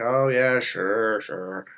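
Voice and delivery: low, dropping, skeptical brush-off; sarcastic agreement, sinking in pitch; mock disbelief. Disbelieving friends answer the empath.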